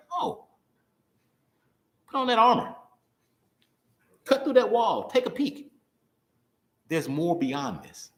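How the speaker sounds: high, urgent call to push through; rally yourself out of the gloom; rousing self pep talk. Retold or imitated. Preacher urging himself out of disappointment, high and rousing.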